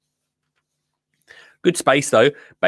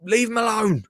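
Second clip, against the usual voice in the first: rowdy jeering pub banter; 4 semitones higher than usual. Pretend. Jeering at lads on the trip.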